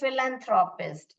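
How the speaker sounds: philanthropist said slowly, starting with an F sound; model pronunciation. Shown as a demonstration. Teacher modelling the word for pupils, clear pronunciation. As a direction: say philanthropist clearly with "fil" at the front. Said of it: "वैसे आपका pronunciation आएगा".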